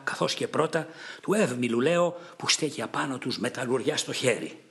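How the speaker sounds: understated angry taunt at Idomeneus; quarrelsome retort. Acted. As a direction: put the old king down, a touch angry. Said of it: "τα βάλε μαζί του".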